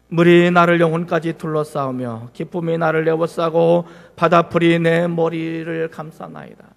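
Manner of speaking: slow, measured reading of the verse; slow scripture reading. Shown as a demonstration. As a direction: read the verse aloud slowly with the congregation. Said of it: "자, 시작". (천천히 성경 봉독하듯)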